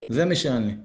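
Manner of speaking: low-key admission; confession. Acted. Teacher voices a penitent owning up to reality, subdued confession. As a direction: own up to it, low and matter-of-fact. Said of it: "צריך להכיר במציאות, להתוודות".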